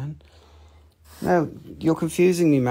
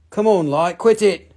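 annoyed at the light; 4 semitones higher, 6 dB louder than usual. Real, not acted.

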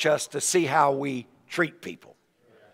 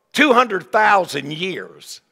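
slow emphasis; 2 semitones higher, much slower than usual. Acted. Stressing huge debt.

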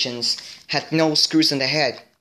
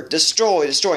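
robot voice; 3 semitones higher, 4 dB louder than usual. Retold or imitated.

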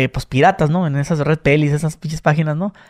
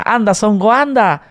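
Spain dub voice; 4 semitones higher, slower than usual. Retold or imitated. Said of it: "le cambian que Son Goanda".

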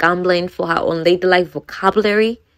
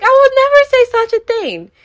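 much higher, prissy and appalled; prim lady voice; 4 dB louder than usual. Retold or imitated. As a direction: play an offended lady of society. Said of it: "She's like".

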